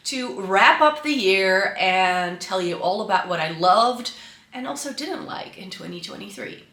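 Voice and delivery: normal talking voice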